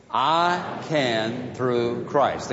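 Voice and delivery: very slow, word by word, leading the room; slow unison recital. Shown as a demonstration. Pastor leading the congregation in a slow unison recital. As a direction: lead the congregation through it slowly.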